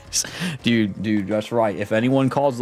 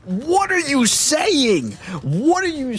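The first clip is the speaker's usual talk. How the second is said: laughing disbelief; slower than usual. Real, not acted.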